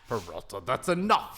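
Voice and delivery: quoting a TV captain. Retold or imitated. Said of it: "like Brooklyn Nine-Nine".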